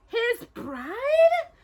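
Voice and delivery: high, gentle question in wonder; soft awed echo. Acted. Cinderella echoing the sisters, softly in awe. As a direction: breathe it out in awe. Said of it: "echoed softly in awe".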